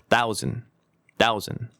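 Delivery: "thousand" as "thau-zn", mouth closing on the N; closed-mouth ending. Shown as a demonstration. Teacher demonstrating for repetition, closed-mouth ending. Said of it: "입을 닫으면 그 발음이".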